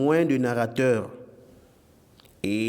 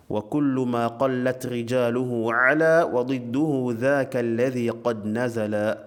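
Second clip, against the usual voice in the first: poem recitation; much faster than usual. Acted. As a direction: recite the line of didactic verse evenly. (récitation posée d'un vers arabe)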